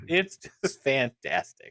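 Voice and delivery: low, slow creepy purr; creepy man voice. Shown as a demonstration. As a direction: savor fantastic like a creepy man. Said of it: "why are you saying it like a creepy man".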